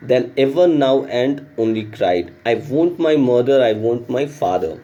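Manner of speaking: slow, careful reading of the story text. A narrator's reading. Teacher reading the English lesson aloud, slow and clear. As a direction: read the passage slowly for the class.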